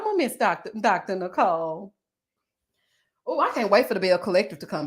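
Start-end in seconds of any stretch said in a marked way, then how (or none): 0.0-1.9 mock sentimental. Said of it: "I'm up here talking about".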